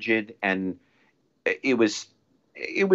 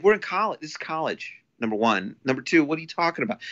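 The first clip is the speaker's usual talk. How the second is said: incredulous retort; 6 semitones higher than usual. Retold or imitated. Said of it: "I'm like".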